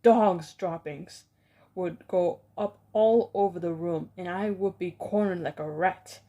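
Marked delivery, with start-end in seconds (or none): 0.0-1.2 slow, loud imagined yell. Retold or imitated. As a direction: bellow it out as the witches would. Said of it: "the yell of".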